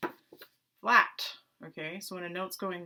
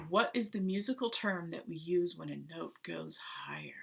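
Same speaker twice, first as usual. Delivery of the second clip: hushed repeat. Pretend. Repeats the secret question, hushed ending.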